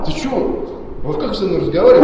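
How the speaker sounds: high, loud outraged shout. Real, not acted. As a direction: yell it in disbelief. Heated quarrel with manager.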